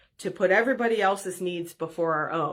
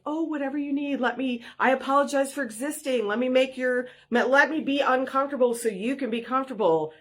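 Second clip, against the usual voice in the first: mock people-pleaser; 5 semitones higher than usual. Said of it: "in true codependent form".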